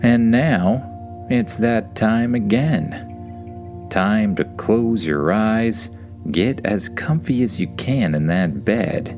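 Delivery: slow, soothing bedtime voice; tucking in at bedtime. Acted. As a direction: settle them down gently for sleep. Bedtime story wind-down.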